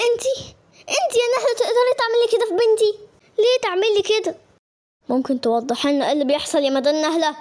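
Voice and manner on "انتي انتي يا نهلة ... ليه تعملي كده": shocked accusation. Acted. Mother confronts the accused neighbour.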